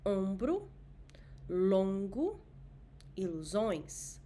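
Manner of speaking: Ombro, longo, ilusões with nasal o; nasal o in each word; nasal vowel drill. Shown as a demonstration. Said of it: "Let's repeat these examples".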